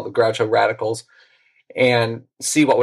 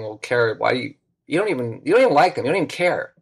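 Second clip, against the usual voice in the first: pissy; faster than usual. Retold or imitated. Boy objecting to his little sister tagging along, pissy. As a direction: imitate a peeved kid, voice climbing as it goes. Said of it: "I got all pissy saying".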